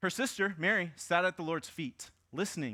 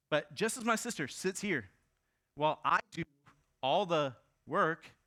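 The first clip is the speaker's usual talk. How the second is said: complaining Martha; 3 semitones higher, 4 dB louder than usual. Acted. Martha's complaint read aloud.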